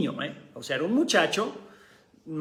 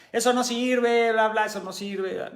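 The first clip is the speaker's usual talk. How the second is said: mild mock heckling; 4 semitones higher than usual. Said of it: "nos empezó a gritar".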